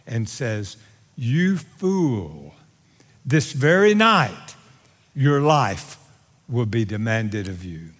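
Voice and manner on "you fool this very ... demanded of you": God pronouncing judgment, measured and falling in pitch; lightly voiced God, phrase by phrase with pauses; God's verdict. God answering the rich man from his perspective, grave verdict. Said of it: "God looks from his perspective and says".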